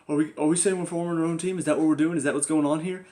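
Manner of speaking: mild mock of a naive team pitch. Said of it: "it's just like".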